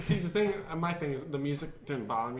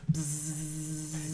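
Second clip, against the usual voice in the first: drone buzz; 3 semitones higher, 6 dB quieter than usual. Retold or imitated. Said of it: "you hear".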